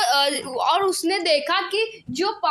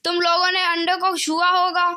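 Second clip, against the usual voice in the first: higher, sharp scolding mother; angry scolding; 4 semitones higher than usual. Acted. Mother scolds the children over broken eggs, angry. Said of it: "गुस्से से बोली".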